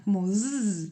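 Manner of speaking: a long zzz buzz. Shown as a demonstration. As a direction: hum a buzzing z. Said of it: "como una Z vibrada".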